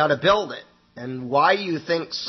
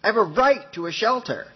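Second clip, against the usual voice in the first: insistent, rising higher on right; ranting; 5 semitones higher than usual. Retold or imitated. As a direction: hammer home her right, voice climbing. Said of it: "she's ranting on and on".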